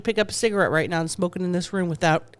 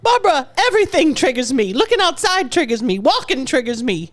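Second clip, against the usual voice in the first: mock dramatic; 6 semitones higher than usual. Mock-dramatic complaint about cravings.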